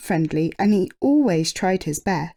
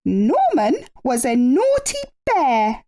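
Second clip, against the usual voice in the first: hint of stern queen; 6 semitones higher than usual. A narrator's reading. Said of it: "said the Queen".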